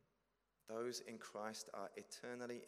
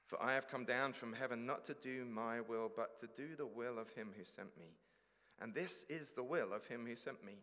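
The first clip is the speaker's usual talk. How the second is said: scripture reading. Acted. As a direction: proclaim each promise with weight. Reading Jesus' words from John.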